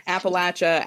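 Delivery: "Appalachia" with a short A and CH, app-uh-LATCH-uh. Shown as a demonstration. Host shows local ways to say it, "Appalachia" as app-uh-LATCH-uh. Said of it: "You can say both".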